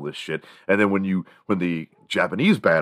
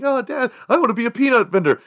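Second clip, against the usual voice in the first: put-on very high, louder innocent boy; sweet kid; 6 dB louder, faster than usual. Boy telling his dad at the ballgame, high and innocent. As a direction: sound as innocent as possible.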